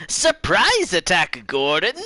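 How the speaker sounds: high, loud playful shout; mock battle cry. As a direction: yell it like a cartoon ambush.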